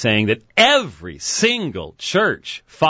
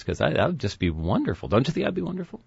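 dripping sarcasm, softer; sarcastic; 7 dB quieter, faster than usual. Acted. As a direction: say it sweetly, meaning the opposite. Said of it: "small bit of sarcasm in my voice right now".

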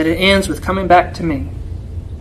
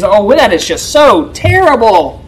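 dripping sarcasm. Retold or imitated. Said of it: "the dripping sarcasm of your enemies".

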